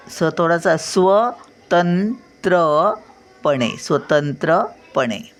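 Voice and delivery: स्वतंत्रपणे drawn out slowly; slow careful syllables. Shown as a demonstration. Grandmother teaching children the स्व sound, slowly. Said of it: "तर बघा, स्व".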